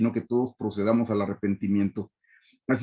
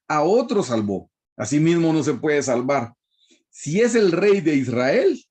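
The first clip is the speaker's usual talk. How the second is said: sarcastic mockery; 3 semitones higher than usual. Preacher voices the priests mocking Jesus, light sarcasm. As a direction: read it with a hint of scorn, as the mockers said it. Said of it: "mire lo que decían con burla, con sarcasmo".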